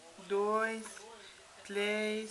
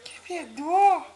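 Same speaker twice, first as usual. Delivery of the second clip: louder, drawn-out mock disgust; playful exclaim; 8 dB louder, slower than usual. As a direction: tease the baby about the stinky feet. Playful stink joke to baby.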